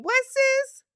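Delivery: high, loud, baffled "What, sis?"; squeaky disbelieving double take; stunned guy reaction. Retold or imitated. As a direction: play the confused boyfriend who can't keep up. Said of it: "'cause I was him. You saying".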